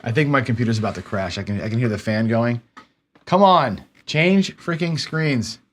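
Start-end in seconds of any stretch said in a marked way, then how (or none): 3.2-5.6 higher, drawn-out frustrated urging; exasperated impatience. Real, not acted. Streamer urging frozen screens to change, exasperated. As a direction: plead crossly with a stuck machine.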